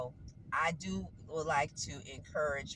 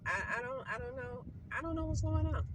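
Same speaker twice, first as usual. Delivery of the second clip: exasperated; 9 semitones higher than usual. Real, not acted. Exasperated about cats.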